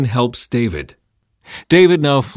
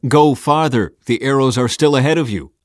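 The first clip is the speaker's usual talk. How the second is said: calling out; 5 semitones higher, 6 dB louder than usual. Retold or imitated. Calling to the boy fetching arrows.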